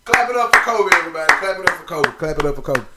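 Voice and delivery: loud, rousing shout-out; hype call. Real, not acted. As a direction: get the crowd clapping for Kobe. Hyping crowd to clap.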